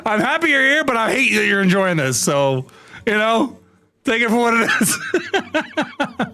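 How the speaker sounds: high, slow, through laughter; half-laughing mock anger; laughing while talking. Real, not acted. Streamer laughing at a viewer while scolding him. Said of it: "I'm so mad".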